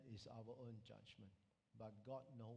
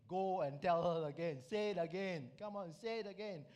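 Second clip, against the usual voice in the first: loud, higher-pitched urging; insistent prompting; 4 semitones higher, 10 dB louder than usual. Acted. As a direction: press a reluctant man forcefully. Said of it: "this prompting come again".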